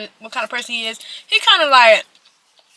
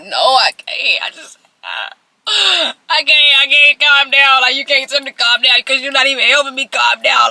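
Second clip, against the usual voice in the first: put-on loud, frantic retort to boyfriend; worked-up protest; 4 dB louder than usual. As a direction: re-enact being too stressed to calm down, loudly. Acted refusal to calm down.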